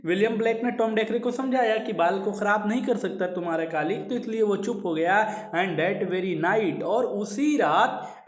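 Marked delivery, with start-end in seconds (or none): 5.5-6.8 each word read out slowly; measured recitation of verse; slow poem reading. Shown as a demonstration. Teacher reads poem line slowly.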